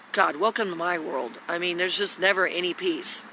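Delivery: soft, breathy, worn-out murmur; weary sigh. Real, not acted. Vlogger sighs to viewers after being interrupted, soft and worn out. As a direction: sigh it out, drained.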